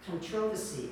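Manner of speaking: imitating Australian "controversy" with stress on the second syllable, conTROversy; Australian accent. Teacher telling class how Australians said it, Australian accent. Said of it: "when I first heard them saying".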